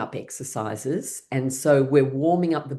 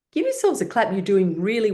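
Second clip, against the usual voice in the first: excited cheer; 6 semitones higher than usual. Real, not acted. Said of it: "cheering group on".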